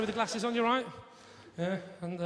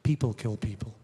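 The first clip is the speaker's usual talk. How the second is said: American friend; 7 semitones lower than usual. Retold or imitated. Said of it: "American friend said".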